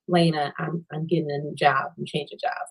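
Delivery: voicing the baby daddy. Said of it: "he texted me back like".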